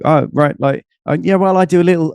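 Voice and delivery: hesitant, self-effacing mumble of a shy networker; downplaying. Stranger at a networking event asked what they do, downplaying it. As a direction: shrug it off as if it's nothing. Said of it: "everyone will downplay".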